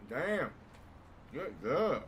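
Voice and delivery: loud, excited cheer; excited exclaim. Real, not acted. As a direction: burst out with excitement. Excited reaction to a video.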